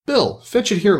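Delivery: lightly voiced busy workman; calling orders. A narrator's reading. A workman calling Bill to bring the ladder, urgent. Workers shout orders to each other.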